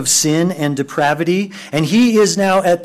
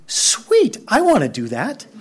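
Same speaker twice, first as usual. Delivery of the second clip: mock thrilled; 7 semitones higher than usual. Imagined thought seeing Jesus.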